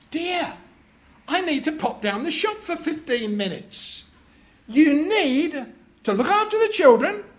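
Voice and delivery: a hint of a busy wife giving orders; wife's instructions. Wife leaving husband in charge, lightly voiced. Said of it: "A wife says to her husband".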